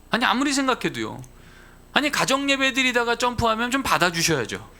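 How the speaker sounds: a father grumbling at God on the drive; indignant complaint. Retold or imitated. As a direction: protest to God as if wronged. Complaining to God while driving.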